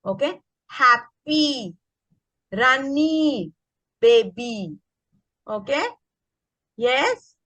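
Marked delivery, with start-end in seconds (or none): 0.7-4.8 put-on happy, runny, baby each ending in a slow long E; long E demo. Shown as a demonstration. Teacher models the Y ending for her class. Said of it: "which is long E".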